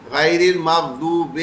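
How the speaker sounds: "غیر المغضوب" drawn out slowly with a lax "ay" vowel for zer; majhool zer demo. Shown as a demonstration. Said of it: "ہم مجہول کر دیتے ہیں".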